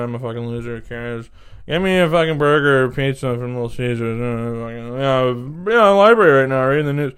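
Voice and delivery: hammed-up impression of a guy yelling into a phone; loud phone caller. Mimicking a library patron taking calls, brash and loud.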